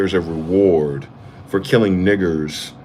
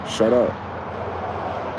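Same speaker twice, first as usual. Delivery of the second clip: a harsh whispered "shut up" to silence them; breathy, cutting hush, almost voiceless; 5 dB quieter than usual. Real, not acted. Snapping at imagined listener.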